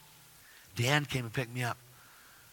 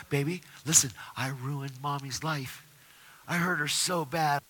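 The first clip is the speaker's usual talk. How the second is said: tender apology; 3 dB quieter than usual. Retold or imitated. Retold apology to young daughter.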